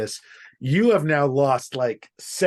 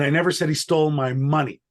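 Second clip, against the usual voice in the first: "money" carries the stress at the end. Shown as a demonstration. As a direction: land on "money". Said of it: "depending on which word I emphasize".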